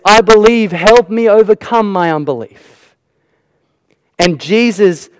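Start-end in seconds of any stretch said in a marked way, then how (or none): 0.1-3.0 cry of surrender. Acted. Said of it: "surrenders at the foot of Jesus and says".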